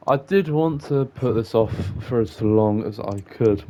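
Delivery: talking through hiccups; speaking with the hiccups. Real, not acted. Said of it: "I've got the hiccups".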